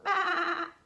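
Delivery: loud, high imitated bleat; lamb bleat. Lambs answer mouse after hearing clues, loud bleat. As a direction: let out a big lamb baa. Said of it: "said the little lambs".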